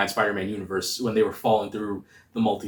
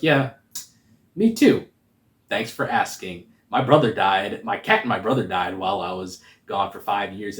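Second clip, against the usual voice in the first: sarcastic. Retold or imitated. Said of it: "he starts off being sarcastic".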